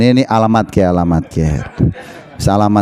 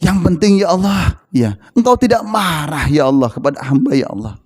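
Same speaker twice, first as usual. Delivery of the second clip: meek, sinking supplication; pitiful prayer; 2 semitones lower than usual. Acted. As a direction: plead with God, fading at the end. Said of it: "Rasulullah melas".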